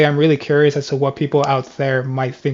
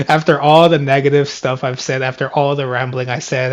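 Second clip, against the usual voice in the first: out of breath; 4 dB louder than usual. Real, not acted. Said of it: "after me having to catch my breath right now".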